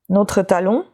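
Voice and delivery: talking with a pill in mouth; chewing while talking. Real, not acted. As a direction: speak around something in the mouth. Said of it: "c'est pour ça que vous m'entendez manger quelque chose".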